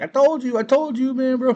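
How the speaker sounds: high loud gloating told-you-so; I-told-you shout. Retold or imitated. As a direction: crow it at him. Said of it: "Anton's like".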